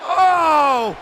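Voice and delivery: loud, drawn-out groan of dismay; dismayed cry. Real, not acted. Commentator watches the Outlaws' interference, dismayed cry. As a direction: cry out at a painful blow.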